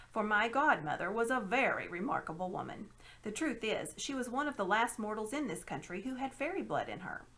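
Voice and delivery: a hint of a sly old man; lightly voiced scheming uncle. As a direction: explain with mild condescension. Uncle Andrew boasts.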